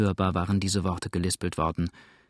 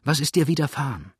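higher, tearful pleading; a friend breaking down at a sickbed; sobbing; 5 semitones higher than usual. A narrator's reading. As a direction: plead through tears, voice lifted. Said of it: "warf sich schluchzend über sie".

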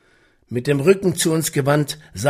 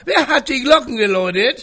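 growled warning; 11 semitones higher, 5 dB louder, faster than usual. Acted. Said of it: "die sturmige Stimme".

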